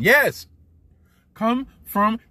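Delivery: high loud cheer; triumphant yes. Real, not acted. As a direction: punch the air with it. Celebrating the comeback win.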